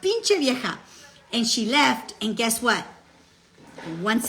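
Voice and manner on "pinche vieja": higher, exasperated curse in Spanish; half-joking Spanish jab; mock curse. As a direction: toss it off like a mild insult. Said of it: "I was like".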